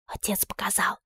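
voiceless whisper; hushed secret whisper. A narrator's reading. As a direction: breathe it secretly, no voice.

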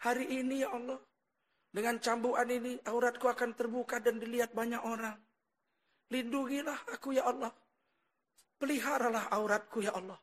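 soft, restrained plea to God; retold tearful prayer. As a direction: plead quietly, without sobbing. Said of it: "disitulah dia menangis". (doa lirih memohon kepada Allah)

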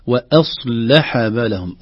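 وأصلح with a full صاد, drawn out; slow recitation. Shown as a demonstration. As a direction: read وأصلح بالهم slowly. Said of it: "فينبغي أن نقول وأصلح".

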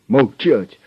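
loud commanding shout; furious order. A narrator's reading. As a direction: silence him at once. Boss silences prisoner. (громкий злой приказ)

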